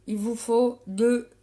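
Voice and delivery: put-on slow, deliberate English accent on highlighter; show-off English accent. Cagole boasting of fluent English to viewers, showy English accent. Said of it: "je parle aussi anglais couramment".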